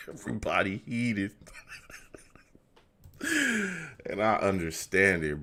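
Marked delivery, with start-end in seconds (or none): 0.1-1.3 whisper. Real, not acted. Whispered aside.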